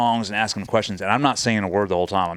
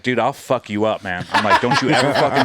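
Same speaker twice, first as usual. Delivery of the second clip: louder, rising mock threat; retold threat; 3 dB louder than usual. Retelling threatening the senior chief, half laughing. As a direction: square up to him in front of everyone. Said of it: "in front of everybody".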